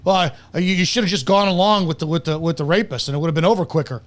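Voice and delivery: low, fast sneering mock advice; mocking Brandon.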